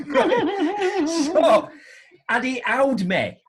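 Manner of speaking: high, loud laughing words. Real, not acted. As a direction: laugh through the punchline. Laughing at punchline.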